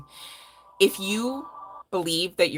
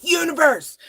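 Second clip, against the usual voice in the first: mock call out; 10 semitones higher, 7 dB louder than usual. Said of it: "to be like".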